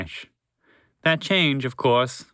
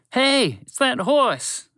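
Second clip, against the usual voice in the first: high, loud, slow call from behind; shouted; 11 semitones higher, 3 dB louder, much slower than usual. A narrator's reading. Zoo worker spots the horse, loud high shout. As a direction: yell it across the park. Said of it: "a voice shouted from behind them".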